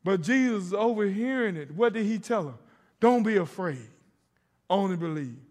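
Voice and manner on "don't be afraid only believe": loud, firm delivery; firm declaration. Shown as a demonstration. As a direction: say it with conviction. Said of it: "Y'all say that with me".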